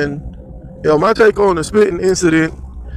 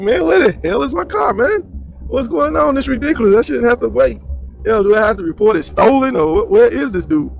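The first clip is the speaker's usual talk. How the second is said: a higher, fed-up demand for the car; impatient judge; 6 semitones higher than usual. Retold or imitated. Judge waiting outside for his car, annoyed and impatient. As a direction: play a judge left waiting by the valet. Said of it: "the judge is standing outside like".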